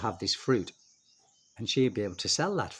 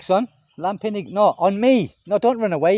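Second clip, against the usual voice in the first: calling out to son; 8 semitones higher, 8 dB louder than usual. Real, not acted. Calling to son after sting.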